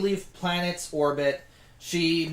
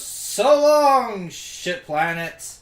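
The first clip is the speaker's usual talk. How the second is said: gleeful; 5 semitones higher, 6 dB louder, much slower than usual. Acted. Gleeful farewell while driving off.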